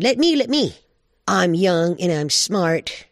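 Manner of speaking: high pleading burst, slowing into a boast; eager bobcat. Acted. Young Bobcat asks Grandmother Owl to choose him, high and eager. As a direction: beg to be picked, pitched high.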